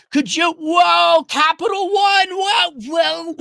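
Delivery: high, loud shouted whoa; loud exasperated cry at the bank; shouting whoa. Real, not acted. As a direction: yell at Capital One to stop. Shouting at Capital One.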